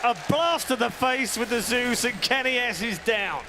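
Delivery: high, slow, loud play call; excited call. Real, not acted. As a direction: stretch out the big moment. Caster calls the kill.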